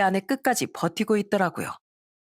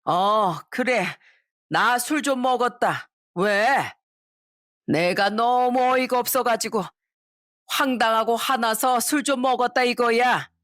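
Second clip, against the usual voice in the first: lightly voiced tipsy mother-in-law, defiant; slurred, mock-defiant admission; a hint of a drunk old mother talking back; 3 semitones higher, slower than usual. Drunk mother-in-law defends drinking.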